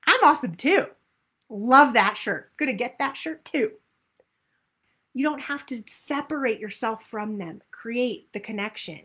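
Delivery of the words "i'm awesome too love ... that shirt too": higher and louder, gushing admiration; excited. Shown as a demonstration. Coach showing the group how to celebrate others, excited. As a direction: cheer another woman's look. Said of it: "Get excited and be like".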